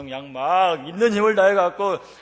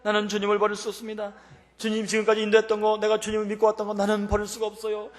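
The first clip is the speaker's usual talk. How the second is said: raised, pleading prayer voice; fervent prayer; 6 semitones higher than usual. Acted. Preacher acting out a desperate prayer to the Lord, fervent. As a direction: pray fervently in a high, insistent voice. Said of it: "이렇게 기도했을 때".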